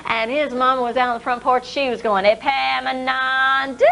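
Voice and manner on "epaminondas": slow, drawn-out call; mother calling out. Acted. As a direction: draw the name out.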